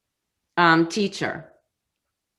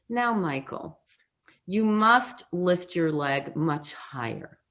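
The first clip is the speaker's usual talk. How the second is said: a soft, slow mock-polite teacher request; gentle soft teacher; 5 dB quieter than usual. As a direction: softly coax the student, not a yell. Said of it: "did not say".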